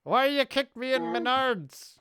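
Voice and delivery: slow, strained voice of pain; pained groan. Pretend. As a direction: moan it like you got kicked. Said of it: "when someone kicks you in the balls".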